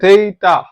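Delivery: थेटा said as theta; letter Z in Spanish, थेटा. Shown as a demonstration. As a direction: say थेटा as theh-ta. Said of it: "जेड को बोलेंगे".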